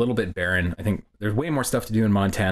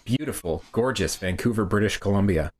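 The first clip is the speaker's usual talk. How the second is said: sexy ad voice. Pretend. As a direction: purr it like a beer ad. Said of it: "with that sexy voice too".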